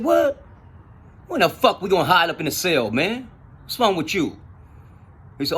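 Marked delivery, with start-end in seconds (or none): 0.0-4.4 high, startled "what" easing into exasperated questioning; retold disbelief, pitched up at the start; incredulous retort. Speaker challenges his cellmate about hiding, incredulous.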